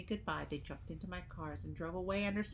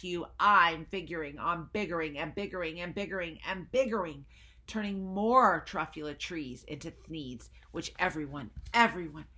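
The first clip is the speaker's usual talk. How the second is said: loud angry yell at the Lorax; 9 dB louder than usual. Acted. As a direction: bellow it in defiance. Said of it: "I yelled at the Lorax".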